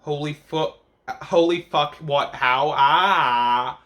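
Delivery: gasping in disbelief; stunned disbelief. Retold or imitated. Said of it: "I've just put down".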